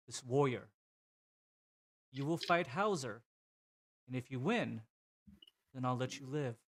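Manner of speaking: a touch of a commanding warlord, measured and deliberate; understated warrior villain, ending in a polite challenge; lightly voiced honorable warrior. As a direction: declare terms with pauses between phrases.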